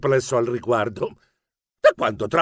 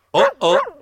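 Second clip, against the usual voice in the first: higher, stammered little oh-oh; stammering; 11 semitones higher, 4 dB louder than usual. Acted. Narrator as himself dreading a walk with the dog, stammering. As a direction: falter on a high-pitched oh.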